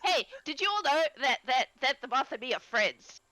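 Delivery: excited little creature. Acted.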